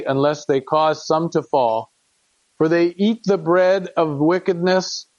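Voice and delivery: measured, solemn reading of scripture; earnest King James reading voice. Acted. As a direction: read it like a father pleading with his son. Reads verses fourteen onward.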